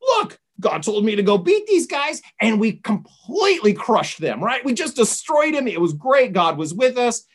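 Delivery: lively, thrilled mock report; excited retelling. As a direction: play an eager, boastful Saul. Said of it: "He's all excited".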